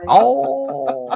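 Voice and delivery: high, loud drawn-out oh; amused oh at the feisty start; delighted surprise. Real, not acted.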